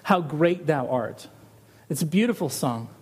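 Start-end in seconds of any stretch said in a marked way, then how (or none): 0.0-1.3 slow title. Shown as a demonstration. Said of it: "this old song".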